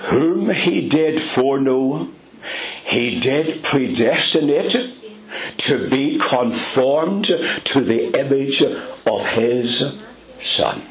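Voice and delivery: preacher quoting Romans with reverence; scripture reading. Acted. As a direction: read it out with lifted reverence. Reads scripture.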